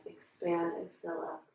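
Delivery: calm breathing guidance with long pauses; guided meditation. Real, not acted. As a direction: guide them gently through each breath, leaving space. Leads breathing and relaxation.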